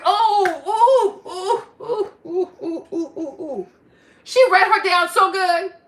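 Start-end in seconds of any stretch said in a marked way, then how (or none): 0.0-3.7 delighted laughing oohs. Real, not acted. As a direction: savor the takedown with laughter.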